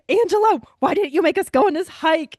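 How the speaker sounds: high, loud imitated protest; mock complaint. Friend scolding Angelo about the hike, mock complaint. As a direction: complain loudly, playing the indignant friend.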